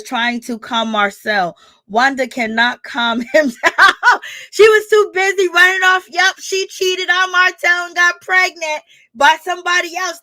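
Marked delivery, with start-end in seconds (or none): 1.9-10.2 excited. Real, not acted. Excited gossip, laughing.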